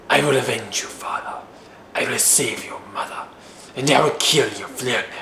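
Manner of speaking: hushed movie Viking, halting between phrases. Acted. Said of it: "they end up talking like this".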